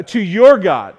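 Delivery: pointed emphasis on "your"; stress on YOUR. Acted. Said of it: "Notice he didn't say his God".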